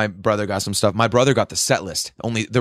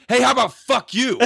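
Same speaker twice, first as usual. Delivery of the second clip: high-pitched retold comeback; acted-out outraged retort; indignant retort; 13 semitones higher than usual. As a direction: fire back at a cheeky kid, voice jumping up. Retold angry retort to kid.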